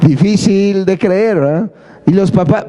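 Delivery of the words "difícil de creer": "Difícil de creer" drawn out slowly; mild imitation, words slowed; slow catchphrase. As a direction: lightly mimic the host, stretching "creer". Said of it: "Sergio Sepúlveda, ¿no?".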